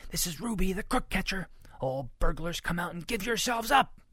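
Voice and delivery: high, plucky crook-catcher announcement; commanding call. A narrator's reading. Ruby orders all burglars to give up, high and commanding.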